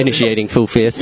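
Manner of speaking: flat machine announcement; robot voice. Acted. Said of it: "In that robot voice?".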